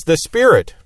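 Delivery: SPIRIT up high and punched; stress on Spirit. Shown as a demonstration. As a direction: put the weight on the first word, Spirit. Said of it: "the one you wanted to emphasize".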